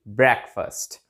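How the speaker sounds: ब्रेकफास्ट said BREK-fust; correct pronunciation. Shown as a demonstration. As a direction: end ब्रेकफास्ट with a short 'uh'. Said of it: "इसकी जो pronunciation होगी". (छोटे 'अ' के साथ 'ब्रेक-फ़स्ट')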